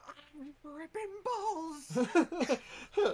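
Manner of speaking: drawn-out, high-pitched yell; slow, loud character outburst. Acted. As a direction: yell it out slowly at full volume. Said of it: "and yells".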